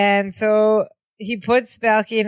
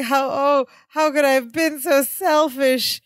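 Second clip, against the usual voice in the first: mock wail; 5 semitones higher than usual. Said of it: "And Balky's like".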